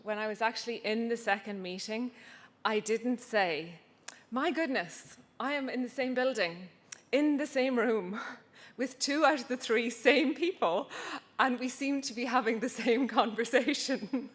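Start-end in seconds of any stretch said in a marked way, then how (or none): 4.3-14.3 higher, laughing at the absurdity; incredulous laughing aside. Retold or imitated. Telling the audience about the same meeting happening twice, laughing in disbelief. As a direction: play up the disbelief with a laugh breaking in.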